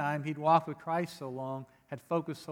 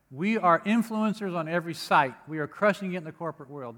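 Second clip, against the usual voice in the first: mock boastful; 2 semitones higher, 4 dB louder than usual. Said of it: "That's not in the Bible. Just kidding".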